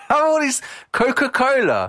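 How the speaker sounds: high, lips kept apart; lips not touching. Shown as a demonstration. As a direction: speak without closing the lips. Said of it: "Why are you saying it like that?".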